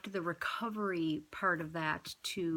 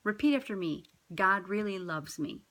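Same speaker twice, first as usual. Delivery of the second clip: gentle prompt; 3 dB louder than usual. Shown as a demonstration. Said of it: "I say".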